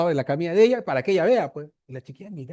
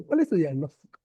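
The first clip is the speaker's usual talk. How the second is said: mild mock sneer on the question. Resident mocking the intern's diagnosis, a mild sneering tone. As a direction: tease it like a smug senior doctor. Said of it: "así todo burlón".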